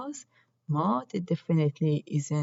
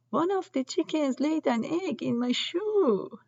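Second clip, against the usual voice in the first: upset; 8 semitones higher than usual. A narrator's reading. Mira upset about egg in shoe.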